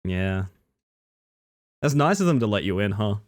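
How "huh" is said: ordinary talk, nothing marked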